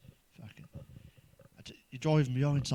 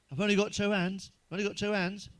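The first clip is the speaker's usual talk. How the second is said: mum's catchphrase, pitched higher; a lightly voiced exasperated mum repeating herself; imitating mum; 5 semitones higher than usual. Mum snapping back at her child, lightly voiced and higher. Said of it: "my mum used to always say".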